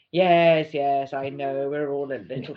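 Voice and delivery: Dan's voice. Retold or imitated. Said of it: "I'm doing this voice for Dan".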